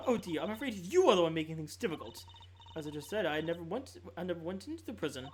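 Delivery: haughty lady voice. Acted. Warden character defends herself.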